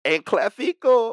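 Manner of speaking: high loud slow announcement; announcer voice. Acted. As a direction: stretch it like a ring call. Announcer style.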